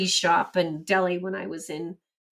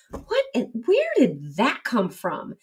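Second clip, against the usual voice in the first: stunned what; 3 semitones higher, slower than usual. Retold or imitated. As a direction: jolt up on the first word, then slow puzzlement. Retold stunned inner thought.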